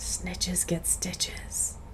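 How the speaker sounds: very quiet, barely voiced whisper. Retelling a comic panel, the narrator reads her line: whispering. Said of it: "so she whispers that".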